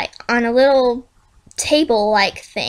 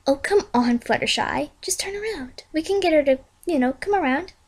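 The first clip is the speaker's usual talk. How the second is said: soft coaxing; 3 semitones higher, 6 dB quieter than usual. Acted. Twilight coaxes Fluttershy softly.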